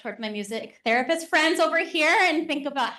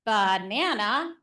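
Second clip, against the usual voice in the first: slow syllable demo; slower than usual. Shown as a demonstration. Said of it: "So if I said".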